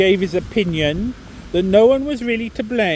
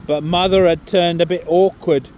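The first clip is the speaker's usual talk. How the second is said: a put-on, hammy northern English accent for the whole poem; terrible northern English accent. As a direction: read it like an old Lancashire monologue, accent laid on but not polished. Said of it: "excuse the terrible accent".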